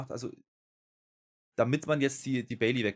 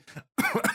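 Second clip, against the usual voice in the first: sharp, high coughing burst; coughing while getting worked up; coughing fit. Real, not acted. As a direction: cough hard mid-rant. Coughs during his rant.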